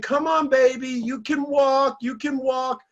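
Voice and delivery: coaxing parent. Retold or imitated. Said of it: "they're saying".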